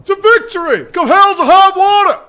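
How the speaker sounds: shouted battle cry; a first shout that holds back a little; loud call. Real, not acted. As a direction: sound off to the drill sergeant. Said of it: "whispering like that?".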